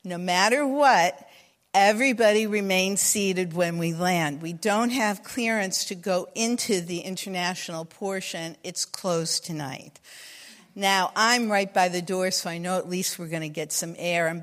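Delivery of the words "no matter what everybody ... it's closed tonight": composed, lower stewardess announcement; imitated calm cabin crew. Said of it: "the stewardesses say very calmly".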